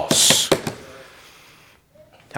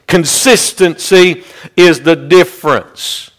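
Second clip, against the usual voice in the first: slow, weighty. Real, not acted. First take of a repeated maxim.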